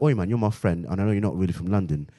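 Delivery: put-on casual, coaxing London accent. Friends testing if London is still in him, London accent. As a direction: ask a favour like a London mate. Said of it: "think in a British voice".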